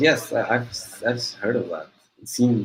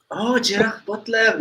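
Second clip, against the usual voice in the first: put-on French-accented name; 10 semitones higher than usual. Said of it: "talking with a French accent".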